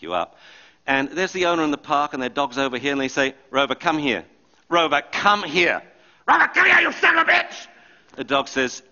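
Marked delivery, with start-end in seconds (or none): 4.7-5.8 louder, slower, getting irritated; the owner's patience wearing thin; impatient call. Retold or imitated. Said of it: "screaming like that". 6.3-7.7 much higher, much louder, all-out screaming at the dog; furious scream. Retold or imitated. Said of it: "screaming like that".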